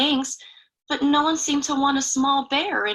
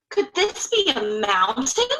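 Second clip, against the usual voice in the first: wondering. Acted. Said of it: "he wondered".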